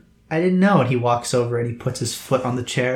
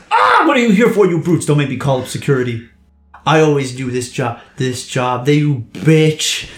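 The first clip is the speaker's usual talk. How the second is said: indignant blustering businessman scolding intruders; outraged rich man; 4 dB louder than usual. Acted. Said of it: "He's like".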